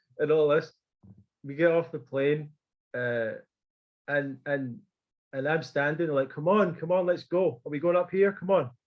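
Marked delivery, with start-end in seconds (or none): 6.3-8.7 commanding, bossy voice. Retelling ordering the other guys around after leaving the plane: retelling own bossy ordering. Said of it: "ordering, starting to order these guys around".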